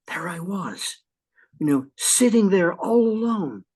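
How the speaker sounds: dramatic storytelling. Shown as a demonstration. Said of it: "If you wanna create an image with someone".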